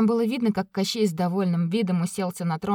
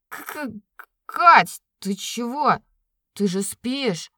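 mumbling; 3 semitones higher, 4 dB louder, much slower than usual. Acted. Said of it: "промямлил он".

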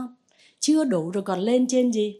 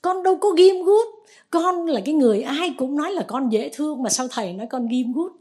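higher, louder indignant disciple; indignant protest; 5 semitones higher, 4 dB louder than usual. Retold or imitated. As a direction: protest the accusation loudly. Đệ tử phản đối lời thầy. (đệ tử phản đối, giọng cao và to)

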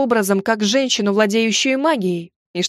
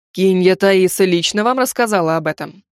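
stern tsar voice; 3 semitones lower than usual. Acted. Suspicious tsar questions heroine.

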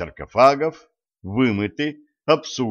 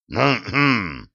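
stern cough. Acted. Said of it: "сурово кашлянул президент".

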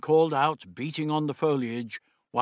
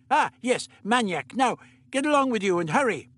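put-on higher, brisk old doctor; 9 semitones higher, 3 dB louder than usual. The Doctor instructing Meliam, brisk fussy voice.

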